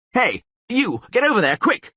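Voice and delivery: high, loud urgent command; shouted order. Acted. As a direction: yell orders at the crowd. Mayor ordering people about.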